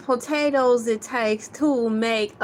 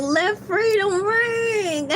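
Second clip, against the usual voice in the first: higher, slow, shouted through laughing tears; mock triumphant proclamation; 7 semitones higher, slower than usual. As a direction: proclaim "Let freedom ring" like a grand anthem. Mock triumphant proclamation over chips.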